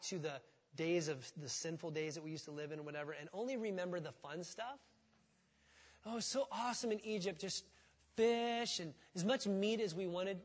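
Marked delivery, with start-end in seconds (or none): 6.1-10.4 mock nostalgia. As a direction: gush like someone romanticising the past. Mocking rosy memories of Egypt.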